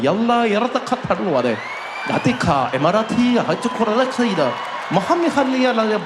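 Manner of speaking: exaggerated mock Arabic announcement, swooping pitch with shouted bursts; mock Arabic gibberish. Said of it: "when you fly Emirates".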